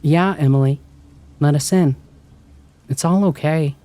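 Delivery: warm and gentle. A narrator's reading. Sister through the door to Emily, warm and gentle. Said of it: "warm and gentle".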